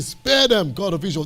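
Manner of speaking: high, loud opening cry that drops away; pleading Moses. Retold or imitated. Moses begging God to spare Israel, impassioned plea. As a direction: preach the plea with urgency. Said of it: "he begged the God of Israel".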